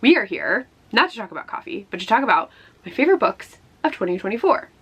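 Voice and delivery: ordinary delivery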